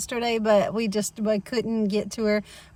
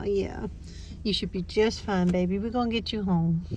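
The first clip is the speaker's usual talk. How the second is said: soothing; 6 dB quieter than usual. Real, not acted. Owner to her dog after surgery, soothing. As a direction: comfort the dog gently and quietly.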